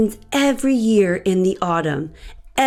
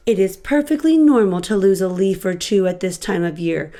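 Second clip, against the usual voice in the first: reassuring Bird; 3 semitones lower than usual. Acted. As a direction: patiently settle a worried friend.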